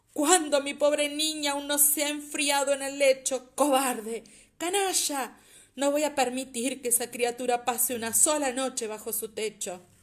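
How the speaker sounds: put-on old voice shaking with rage. Reading a novel aloud, an old man accusing another: voice shaking with anger and grief. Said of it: "estremecida la voz de viejo por la ira y la aflicción".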